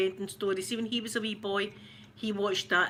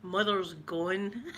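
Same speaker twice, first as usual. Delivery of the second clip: slow, grave father deer; stern daddy deer; 2 semitones lower, much slower than usual. Retold or imitated. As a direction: announce it slow and solemn. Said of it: "the daddy deer coming out and going".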